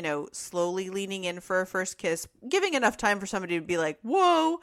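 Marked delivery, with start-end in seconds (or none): 4.0-4.6 surprised whoa. Retold or imitated. Acting someone pulling back.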